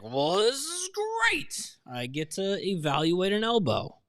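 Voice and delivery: high, gushing mock enthusiasm; over-the-top positivity, stretched high; overly positive trainer. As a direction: play an absurdly delighted trainer, pitch soaring. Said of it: "and then he's like".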